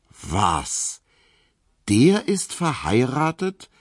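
high, slow disbelieving question; can't believe his ears; incredulous. A narrator's reading. Emil hearing the postman is married, incredulous. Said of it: "fragte Emil Kubinke ungläubig".

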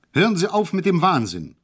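high, loud cry of protest; shouting. A narrator's reading. Hejula shouts at the mad guard, loud and high. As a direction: yell it at him to stop. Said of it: "rief ich".

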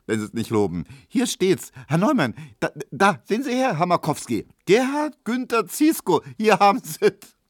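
high, gleeful reading broken by laughs; laughing shouting. A narrator's reading. Tesch showing everyone the paper, laughing and shouting. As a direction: crow it out, beside yourself with amusement. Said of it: "lachte und schrie".

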